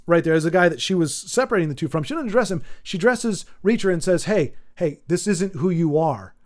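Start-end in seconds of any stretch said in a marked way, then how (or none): 4.2-6.3 sincere and gentle. Retold or imitated. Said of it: "very sincere".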